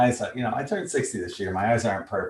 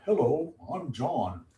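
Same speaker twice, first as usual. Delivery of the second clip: slow, higher put-on introduction; drawn-out mock greeting in a raised voice; John Holland impression; 5 semitones higher, 4 dB quieter than usual. Card reader guessing how the author sounds, in a put-on voice. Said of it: "what he sounds like".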